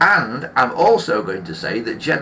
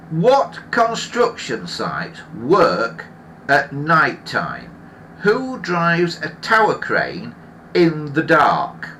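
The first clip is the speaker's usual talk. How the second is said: incredulous scorn; 3 semitones higher, slower than usual. Real, not acted. Mocking the episode's logic.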